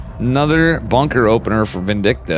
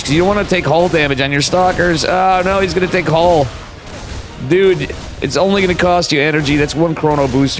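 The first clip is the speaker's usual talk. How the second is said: excited urging; 5 semitones higher than usual. Real, not acted. Caster urging player.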